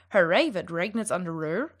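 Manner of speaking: "Herr Rewert, regnet's an der Ruhr?" with English R; the wrong way, English tongue R; English accent. Shown as a demonstration. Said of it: "should not sound".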